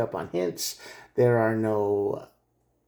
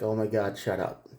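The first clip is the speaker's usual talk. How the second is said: softer, fed-up mutter; exasperated mutter; 2 semitones lower, 6 dB quieter than usual. Retold or imitated. The reader voicing the listener fed up with the chatter, softer mutter. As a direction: let it drop under your breath.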